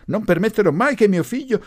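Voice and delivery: high, loud indignant refusal; outraged shout. A narrator's reading. Mother shouting down the professor about her son, outraged. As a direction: forbid it at full voice. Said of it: "gridò più forte di lui".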